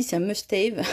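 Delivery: must-have said with a put-on English accent, laughing. Shown as a demonstration. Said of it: "Tu as vu mon accent".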